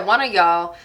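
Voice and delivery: casual Southern "y'all"; Southern accent. Real, not acted. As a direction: let a light Southern accent slip out. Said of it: "I keep wanting to talk with an accent".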